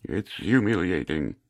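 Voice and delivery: stoma voice. Pretend. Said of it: "I sound like motherfucking Stephen Hawking".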